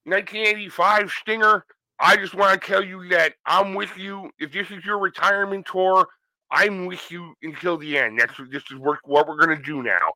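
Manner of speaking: lightly voiced Ric Flair; a hint of old Ric Flair with a retainer. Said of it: "sounds like he's got a retainer in his mouth".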